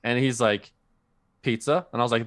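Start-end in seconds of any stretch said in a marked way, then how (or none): 1.4-1.9 pizza said the usual PEET-suh. Retold or imitated. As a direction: answer with Pizza, a ts in the middle. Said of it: "There's no T in pizza".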